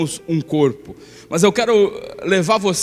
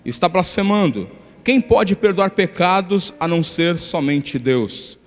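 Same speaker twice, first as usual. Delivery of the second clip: scripture reading. Acted. Pastor reading Mark two aloud, in a steady scripture reading. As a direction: read the passage out to the church. Reads the Gospel passage.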